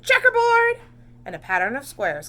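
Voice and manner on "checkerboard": high, loud call-out; teasing shout. Acted. Classmate calling out a pattern, high loud shout. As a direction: shout it across the room. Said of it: "Someone else shouted".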